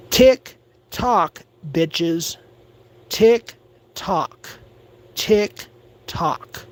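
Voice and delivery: mocking singsong countdown, tock dropped to a whisper; taunting tick tock. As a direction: taunt them with a ticking clock. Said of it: "I don't even like to talk like that".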